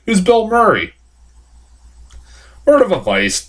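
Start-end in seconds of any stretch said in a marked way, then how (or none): 0.1-0.9 mock girl. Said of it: "she's like".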